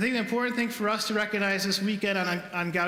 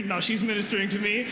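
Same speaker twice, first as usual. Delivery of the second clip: laughing; faster than usual. Real, not acted. Laughs at his own role reversal.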